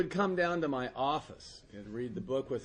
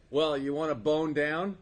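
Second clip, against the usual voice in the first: louder, matter-of-fact proposition; blunt proposition; 3 semitones higher, 5 dB louder than usual. Retold or imitated. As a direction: pop the question loudly and bluntly. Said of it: "Just like that".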